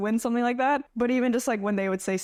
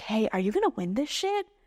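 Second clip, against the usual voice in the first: imitated whispering. Retelling what someone said before the competition: retelling a whisper. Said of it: "whispers in my ear".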